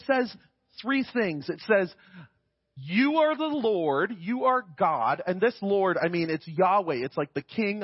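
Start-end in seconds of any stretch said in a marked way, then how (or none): 2.8-5.2 reverent. Real, not acted. Reading reverent response slowly.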